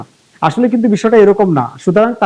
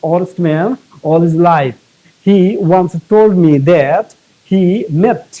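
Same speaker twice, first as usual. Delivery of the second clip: slow, deliberate reading of an exam sentence; slow dictation reading; much slower than usual. Shown as a demonstration. Teacher reading the exam passage to students, slowly and deliberately. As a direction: read it out word by word for the class.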